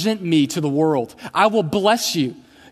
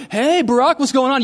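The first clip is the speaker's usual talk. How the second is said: higher, louder breezy shout of greeting; casual friendly call; 8 semitones higher, 4 dB louder than usual. Retold or imitated. Fan calling out to Barack Obama on the road, high and loud. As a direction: hail him like an old buddy. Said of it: "you're like".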